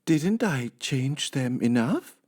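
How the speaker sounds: high, slow and pleased; high housemaid musing to herself; high, sweet Amelia Bedelia voice. Acted. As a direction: play the cheerful literal maid. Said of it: "asked Amelia Bedelia".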